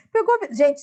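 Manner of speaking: laughing through the words; delighted laugh as she repeats it; giggling, pleased. Real, not acted.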